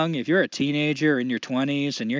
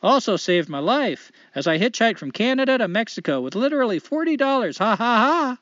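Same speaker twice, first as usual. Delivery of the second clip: put-on Canadian accent. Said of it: "I'm gonna try to do a light Canadian accent".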